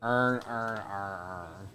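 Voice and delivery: imitated Baltimore accent, every word merged into "earn"; four identical drawled "earn"s, Baltimore style. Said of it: "five different words in a Baltimore accent".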